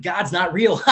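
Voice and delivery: blurted high and loud through a laugh; laughing retort. Retold or imitated. Newcomer telling the old-timers off, laughing and loud. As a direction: laugh it out defiantly.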